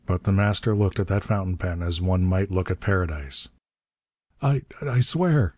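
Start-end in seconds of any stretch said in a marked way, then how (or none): 4.4-5.5 high, slow panicked stammer; gasped oath. A narrator's reading. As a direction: gasp it out desperately, pitched high. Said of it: "he gasped".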